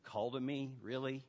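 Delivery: understated skepticism, no emphasis on "Call"; skeptical listener. Acted. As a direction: query it quietly, unconvinced. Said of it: "This is sounding a little too emotional".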